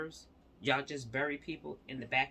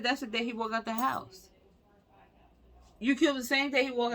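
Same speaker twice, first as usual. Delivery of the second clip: higher, louder outraged demands, retold in earnest; furious mother; 4 semitones higher, 3 dB louder than usual. Mother confronting the deputies over her buried son, higher and louder in anger. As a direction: throw the accusations at them, rising in outrage. So now she's freaking out.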